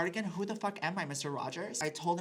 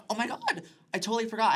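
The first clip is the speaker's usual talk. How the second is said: hammed-up gasp of surprise, much higher and louder; fake shock; 8 semitones higher, 9 dB louder, much faster than usual. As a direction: overact the innocent forgetting like an Oscar scene. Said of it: "my Oscar Academy moment".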